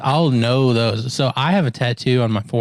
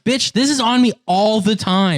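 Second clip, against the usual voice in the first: sassy retort; 5 semitones higher than usual. Retold or imitated. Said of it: "I'm like".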